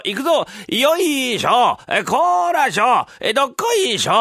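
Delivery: loud, high calls of the master and his men; mochi-maker crew. Pretend. Husband plays the noisy mochi crew for the neighbours, hearty loud calls. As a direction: bellow like a work crew hauling a mortar. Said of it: "親方と若い衆二人ぐらいいるかな".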